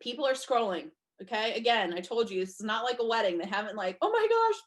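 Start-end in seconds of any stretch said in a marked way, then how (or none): 4.0-4.6 higher, louder excited "oh my gosh"; excited gasp. Pretend. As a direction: gush like a thrilled fan, higher. Mimics an excited guest.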